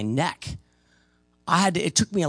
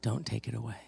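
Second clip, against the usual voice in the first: lower, softer plea; quiet begging; pleading; 6 semitones lower, 5 dB quieter than usual. Retold or imitated. Man begging preacher not to take his demon. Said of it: "one guy said".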